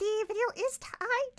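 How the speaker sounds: voice cracking, high and loud. Streamer telling viewers where to find the uninterrupted video: voice cracking. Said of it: "that voice cracked my there".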